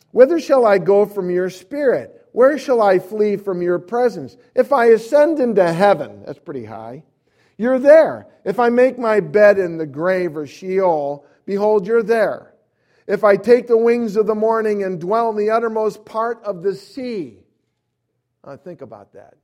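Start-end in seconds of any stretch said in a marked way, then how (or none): 0.1-6.2 loud, high, ringing Bible reading; full-voiced sermon declamation; preaching scripture. Real, not acted. 7.6-17.4 loud, high, ringing Bible reading; full-voiced sermon declamation; preaching scripture. Real, not acted.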